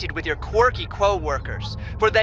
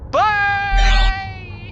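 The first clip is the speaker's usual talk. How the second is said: cheery goodbye; 10 semitones higher, 4 dB louder than usual. Acted. Cuts transmission cheerily.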